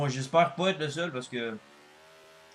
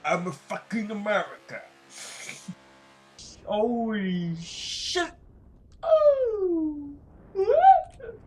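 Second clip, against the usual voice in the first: loud, higher American bro voice, squealing the last What; over-the-top American accent rising to a shriek; brash American accent; 10 semitones higher, 7 dB louder, much slower than usual. Pretend. Gamer keeps mocking American racing fans in a brash American accent. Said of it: "mon accent américain".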